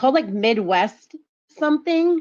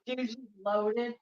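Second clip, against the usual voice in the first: whisper; 3 semitones higher, 10 dB quieter, slower than usual. Real, not acted. Aside about the drunk driver.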